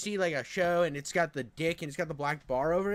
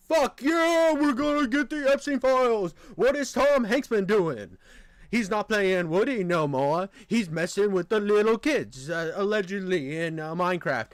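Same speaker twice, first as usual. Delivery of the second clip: excited; 4 dB louder than usual. Retold or imitated. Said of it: "I'm like".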